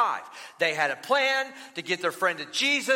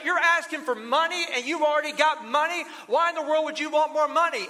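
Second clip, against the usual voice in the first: higher, indignant father scolding; a dad worked up at his son's hidden cash; mildly raised retold anger; angry dad; 5 semitones higher than usual. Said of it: "he gets even more mad".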